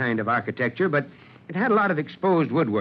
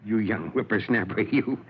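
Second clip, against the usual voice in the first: amused, lower-pitched affectionate rebuke; chuckling mock scolding; 4 semitones lower, 4 dB quieter than usual. Chief caught out by young private, chuckling. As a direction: chuckle through a teasing telling-off.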